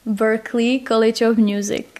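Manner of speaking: Berklee College of Music in an American accent. Shown as a demonstration. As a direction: say the name in a light American accent. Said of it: "To zkusím teda s tím americkým akcentem".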